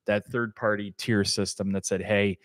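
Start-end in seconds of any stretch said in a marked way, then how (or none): 2.0-2.4 pushy salesman voice. Retold or imitated. Wholesaler voiced in story.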